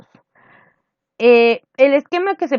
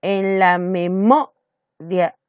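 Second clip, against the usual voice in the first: En la memoria slow, the mo stretched; stressed syllable; much slower than usual. Shown as a demonstration. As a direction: dwell on the syllable mo. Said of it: "viene a ser la octava". (lento, marcando mo en memoria)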